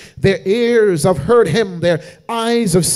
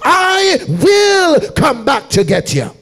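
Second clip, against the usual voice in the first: preaching at full force; 3 semitones higher than usual. Acted. Preacher to congregation quoting Jesus, full-force chanted whoop.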